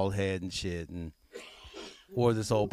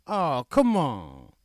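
whining plea; 4 semitones higher, 3 dB louder, much slower than usual. Retold or imitated. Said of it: "subway guy pleading".

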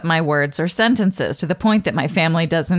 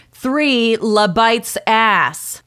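"La Bites ass" dragged out slowly, a touch louder; 4 semitones higher, much slower than usual. Retold or imitated. Annoyed at the bartender, slow mock repeat. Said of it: "I repeated slowly and loudly".

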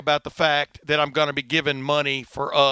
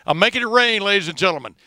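mock showman hype; 5 semitones higher, 4 dB louder than usual. Host mocks his own filler-word tally.

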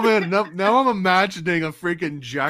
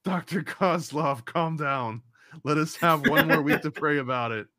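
calming reply. Acted. Acted reply to Kozlov's outburst.

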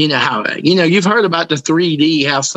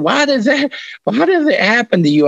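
mad; 9 semitones higher than usual. Retold or imitated. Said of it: "he's mad".

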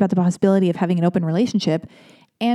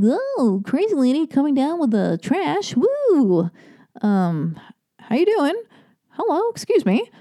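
high, ditzy sing-song crazy lady; 7 semitones higher, slower than usual. Retold or imitated. Calling hello to the man with trash, ditzy high voice. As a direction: ham up the flirty crazy lady. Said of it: "I'm like".

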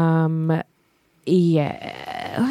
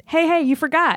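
nagging song; 7 semitones higher than usual. Acted. Voicing a nagging sad song.

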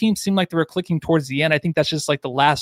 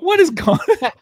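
confused exclamation; 12 semitones higher than usual. Retold or imitated. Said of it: "And so I was like".

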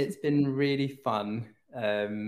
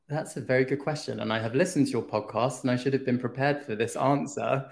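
hoarse from a cold; talking through a sore throat; sick voice. Real, not acted. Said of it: "your sexy little sick, sick voice".

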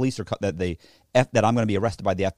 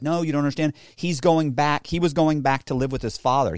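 higher-pitched, lightly mimicked pleading; imitated insistent girlfriend; 5 semitones higher than usual. Girlfriend explaining about her son, mock insistent. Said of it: "And she's like".

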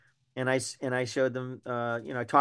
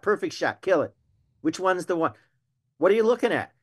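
higher-pitched, pressing quick-fire questions; urgent hunting challenge; 5 semitones higher than usual. Retold or imitated. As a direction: act out putting them on the spot. Acting out urging hunters to shoot.

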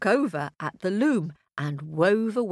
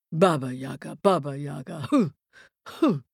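low rhythmic chant with rising hoots; witch in flight; 3 semitones lower than usual. A narrator's reading. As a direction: chant the name, then hoot like rushing wind. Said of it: "went Baba Yaga as she swished".

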